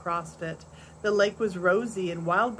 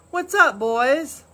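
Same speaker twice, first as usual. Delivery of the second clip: deep, strong voice; 6 semitones higher, 7 dB louder, slower than usual. A narrator's reading. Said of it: "It was deep and strong, not loud".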